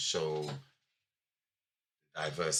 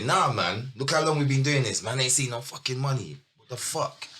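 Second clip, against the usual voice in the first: annoyed rant about money; heated retort; 5 semitones higher than usual. Retold or imitated. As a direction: push back hard at the group. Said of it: "I would say".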